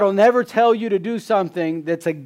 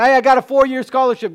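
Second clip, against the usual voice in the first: bright, higher, louder, quick boast; an eager student showing off good news; excited boast; 7 semitones higher, 6 dB louder, faster than usual. Pretend. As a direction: brag about the scholarship. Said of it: "When the University of Texas is going".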